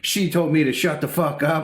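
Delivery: high, loud indignant whine; imitating drunk customers losing it; mock outrage. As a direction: act scandalized and furious. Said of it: "they fucking lost it".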